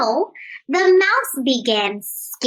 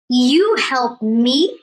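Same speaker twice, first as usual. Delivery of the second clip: lion scoffing; 4 semitones lower than usual. Acted. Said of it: "cried the lion".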